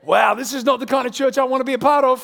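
a churchgoer appalled at the slip; mock horrified churchgoer. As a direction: play the shocked visitor. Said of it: "It's like".

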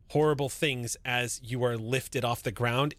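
ordinary talk

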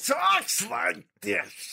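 high, slow, shouted nasal screech; Gilbert Gottfried impression. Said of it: "The thing is".

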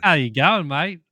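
best Aussie accent, lifted and punchy; American doing an Aussie greeting. Shown as a demonstration. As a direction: try on an Australian twang. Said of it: "give me your best Aussie accent".

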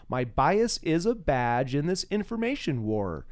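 lightly voiced poem recital, measured and deliberate; poem reading. Host reading his poem to guest Jeff, measured recital. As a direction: read the poem out with conviction.

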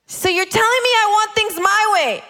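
high-pitched incredulous protest; mock indignation. Believer questioning God's list of faults, indignant protest. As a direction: push it up in offended disbelief.

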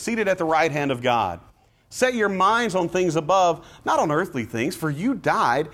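uplifting scripture read; encouraging reading of Colossians. Shown as a demonstration. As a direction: call them upward, encouraging. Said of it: "What kind of tone was that?".

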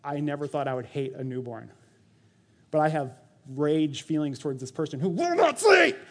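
frustrated rant. Retold or imitated. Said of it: "you're like".

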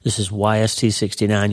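slightly husky, frog in throat. Real, not acted. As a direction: talk through a frog in the throat. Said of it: "I got a little frog in my throat this morning".

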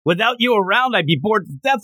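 plead, mildly upset, as if retelling it; a touch of theatrical dismay; retold upset. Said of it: "he's actually really upset".

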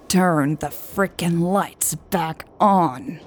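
grind out every word; growled. Acted. Hobbs repeating his demand to Lucas, growling. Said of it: "Hobbs growled".

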